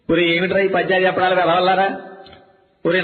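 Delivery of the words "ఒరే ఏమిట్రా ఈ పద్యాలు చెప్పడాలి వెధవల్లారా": ordinary delivery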